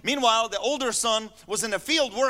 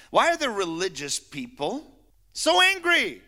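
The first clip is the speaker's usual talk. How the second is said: emphatic question. Real, not acted. Rhetorical question to congregation.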